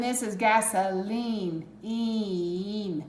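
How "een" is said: "Een" as a lone long E ending; isolated sound. Shown as a demonstration. Teacher isolating the long E sound. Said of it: "making the long E sound".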